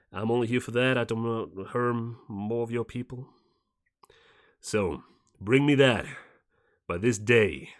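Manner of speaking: light put-on American accent, measured proclamation; warlord's taped message in a mixed, put-on American accent; fake American accent. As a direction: issue a recorded ultimatum in a slightly faked American accent. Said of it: "someone trying to put on an American accent".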